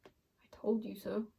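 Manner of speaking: slow, soft "told" with a teasing rise; drawn-out taunting murmur; smug told-you-so. Shown as a demonstration. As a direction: savour "told" slowly and quietly with an upturn at the end. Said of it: "I don't know if I like that energy".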